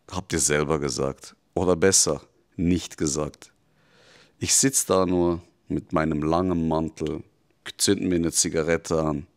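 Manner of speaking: a lightly voiced devil leaning in; devil growing intense. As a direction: let the devil's voice swell with contempt.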